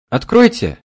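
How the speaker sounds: put-on high young girl's voice, loud; young girl calling. A narrator's reading. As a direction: call out high like a young maid. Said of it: "голос молодой девушки".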